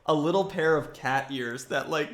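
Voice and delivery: talking through helpless, high laughter. Real, not acted. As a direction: crack up while describing it, squeezing the words out. Cracking up at cat ears.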